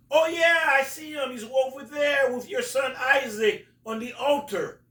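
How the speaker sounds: very high, excited call; high giant voice. Retold or imitated. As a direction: sing out the giant's sighting. Giant voiced spotting Abraham.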